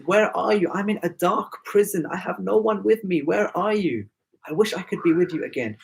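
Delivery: plaintive child's call, mildly voiced; pleading child. Lonely girl in a dark prison calls to her father, lightly acted pleading.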